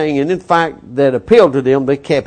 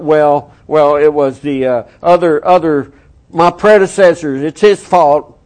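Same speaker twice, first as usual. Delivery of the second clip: louder, blustering excuse; mock excuse-making leader; 4 dB louder than usual. Preacher mocking a leader who blames his predecessors, mock bluster.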